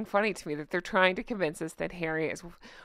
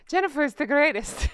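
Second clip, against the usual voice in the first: higher-pitched mock Irish accent; 5 semitones higher than usual. Playing Jamie praising the host, mock Irish accent. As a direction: pretend Irish voice, played for fun. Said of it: "That's my Irish accent".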